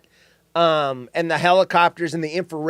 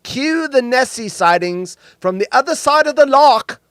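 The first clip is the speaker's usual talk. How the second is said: higher-pitched mock English accent; lightly hammed-up English voice; 6 semitones higher, 4 dB louder than usual. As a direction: read it out in a playful English accent. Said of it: "said it in an English accent".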